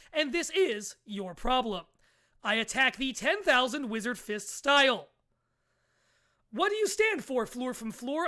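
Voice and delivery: news reporter voice. Acted. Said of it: "I'm gonna turn the news reporter voice on".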